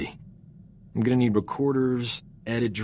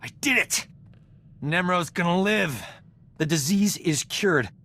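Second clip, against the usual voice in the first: much higher, bursting with triumph; triumphant; 8 semitones higher than usual. Acted. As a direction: cry out in victory, then savour it. Cure succeeds, triumphant cry.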